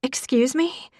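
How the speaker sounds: high, startled squeak after choking on a jalapeno; shocked. A narrator's reading. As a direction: blurt it out, caught off guard.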